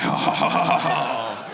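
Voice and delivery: hammed-up eager clerk; delighted shop clerk. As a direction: gush like a smitten employee. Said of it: "They're like".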